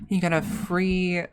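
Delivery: lightly voiced counter worker pitch; customer service voice. Worker pitching rewards to a customer, light customer service voice. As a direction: offer a rewards scheme like a scripted cashier. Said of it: "that's the voice you'd hear".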